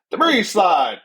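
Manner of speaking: high excited call mimicking a sax; sax impersonation. Podcaster missing a sax player on tour, imitating saxophone. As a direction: sing it out high, then fall like a sax. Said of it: "That's my sax impersonation".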